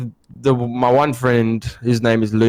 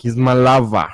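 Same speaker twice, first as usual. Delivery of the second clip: laughing. Retold or imitated. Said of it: "And I'm like".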